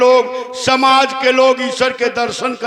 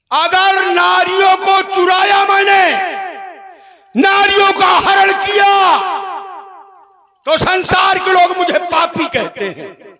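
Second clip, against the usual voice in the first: high, ringing protest with held line ends; theatrical demon-king indignation; indignant Ravan; 7 semitones higher, 4 dB louder than usual. Acted. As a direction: proclaim the charge to the whole crowd. Stage Ravan protests the accusation.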